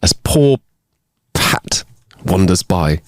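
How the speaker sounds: put-on storytelling in a half-committed Irish accent. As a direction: build suspense in a rough Irish accent. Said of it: "the terrible Irish accent that I put on".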